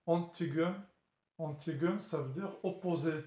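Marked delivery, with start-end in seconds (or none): 0.0-0.7 rough attempt at German "Antigen"; careful, French-accented German; German word, French accent. Shown as a demonstration. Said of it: "désolé de, de, de, de mon accent allemand". 1.4-2.0 amateur German pronunciation of "Antigen"; French speaker attempting German; German word, French accent. Shown as a demonstration. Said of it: "désolé de, de, de, de mon accent allemand".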